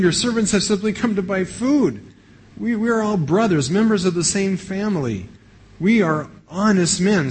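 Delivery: a lightly voiced plea to a stern ruler; nervous pleading. Brothers pleading before governor.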